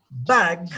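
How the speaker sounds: BAG with the English front "a" sound; English short A. Shown as a demonstration. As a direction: say BAG with one pure, open English A. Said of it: "has the sound A".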